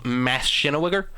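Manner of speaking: "Mashinawiger" said as one confident word; mock-correct pronunciation. Shown as a demonstration. Commentator correcting the YouTuber's trouble pronouncing it, mock-correct pronunciation. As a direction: pronounce "Mashinawiger" as if it were the proper name. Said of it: "that's how you pronounce it properly".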